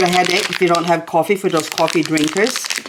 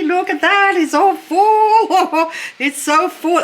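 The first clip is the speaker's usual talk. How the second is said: laughing delight; 10 semitones higher, slower than usual. Real, not acted. Delighted at full grow tent.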